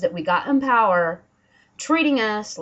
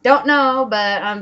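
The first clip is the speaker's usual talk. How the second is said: loud outburst; 4 semitones higher, 7 dB louder than usual. Real, not acted. Outburst at the judge.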